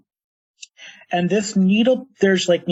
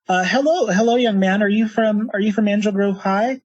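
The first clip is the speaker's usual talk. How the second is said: lightly voiced townswoman, slightly raised pitch; woman greeting a stranger; 4 semitones higher than usual. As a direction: hesitantly hail a young man, pitched up a little. Game master voices fudge-stirring woman.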